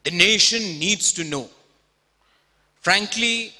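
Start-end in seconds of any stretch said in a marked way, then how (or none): 0.0-1.5 quoting Arnab Goswami. Retold or imitated. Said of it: "Arnab Goswami says this all the time".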